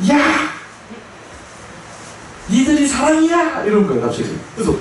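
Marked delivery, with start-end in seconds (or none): 0.1-3.6 high mock yell at the people around; tearful yell. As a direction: shout out, half crying. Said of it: "주변 사람들한테 코함을 치죠". (울먹이며 소리치듯이)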